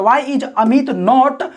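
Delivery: very slow, word by word; dictating slowly to the class; slow dictation. Shown as a demonstration. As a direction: spell it out slowly for students. Dictating the English translation.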